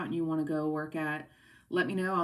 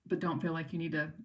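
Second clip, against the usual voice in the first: hiccups. Real, not acted. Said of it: "Sorry, I have the hiccups".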